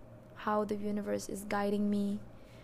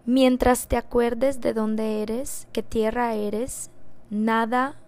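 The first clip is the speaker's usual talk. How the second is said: voice of the universe; 6 dB louder than usual. Retold or imitated. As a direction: intone it like a sacred teaching. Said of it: "I'm gonna say it in Spanish".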